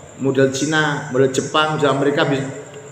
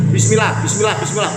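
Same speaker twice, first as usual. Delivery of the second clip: imitating student; 4 semitones higher, faster than usual. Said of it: "Pak Ustaz ngomongnya bismillah".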